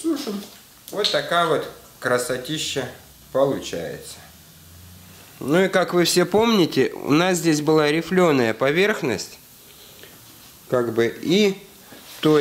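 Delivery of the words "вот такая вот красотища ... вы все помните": ordinary delivery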